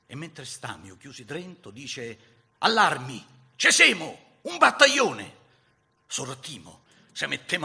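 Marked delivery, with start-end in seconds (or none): 2.6-5.3 full-voiced alarm shout, climbing higher; calling to arms. Lookout warning comrades of a battalion, loud urgent cry. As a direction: shout the alert to the whole troop.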